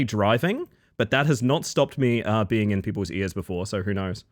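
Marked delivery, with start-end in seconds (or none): none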